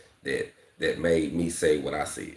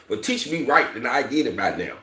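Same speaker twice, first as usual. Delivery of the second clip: higher, louder mock retort; retold exasperation; 7 semitones higher, 4 dB louder than usual. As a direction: fire it back like you're fed up. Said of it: "Like, like, I".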